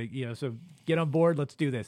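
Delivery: ordinary delivery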